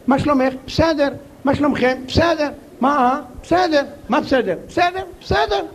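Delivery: a hint of a nagging wife; wife on the phone. Wife calls husband on phone.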